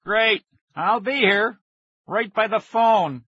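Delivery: high, loud, slow and drawn out; sarcastic scream. A narrator's reading. Boy with phone stuck to his ear signs off, screaming. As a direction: shout each phrase in exasperation. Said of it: "he screamed".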